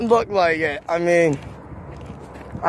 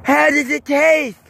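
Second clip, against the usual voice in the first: high, slow singer impression; a crooning singer's voice; 7 semitones higher than usual. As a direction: stretch it out high like a crooner. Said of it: "my singer voice".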